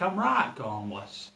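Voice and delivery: a slow, slight slip into broad Leeds; Leeds accent. Shown as a demonstration. Performer joking about his hometown, slipping into a Leeds accent. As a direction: let the Leeds accent creep in. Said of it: "I slip into accent like".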